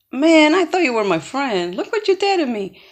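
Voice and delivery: mildly hurt, reproaching a friend; upset. Retold or imitated. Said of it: "very upset for obvious reasons".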